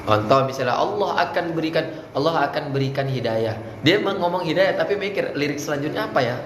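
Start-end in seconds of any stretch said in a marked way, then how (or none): 0.8-3.6 unemphatic, distracted. Shown as a demonstration. Coach mimics a speaker hunting the next line, not firm. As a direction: run through it without emphasis. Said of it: "kenapa nggak tegas ngomongnya?".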